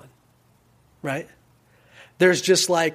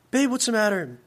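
higher-pitched voice of a wife; lightly voiced concerned spouse, pitched up; 6 semitones higher than usual. Wife asks dejected husband.

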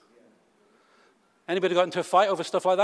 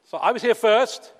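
indignant mock protest; 5 semitones higher, 6 dB louder than usual. Mocking a queue-jumper grievance.

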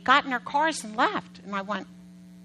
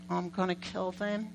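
inner exasperation; 4 semitones lower, 8 dB quieter than usual. Retold or imitated. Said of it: "Inside, I'm like".

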